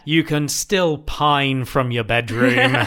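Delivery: slow, emphatic mock scolding; exasperated mum. Co-host as mum to lovesick son next door, slow mock exasperation. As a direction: spell it out slowly like a fed-up mum.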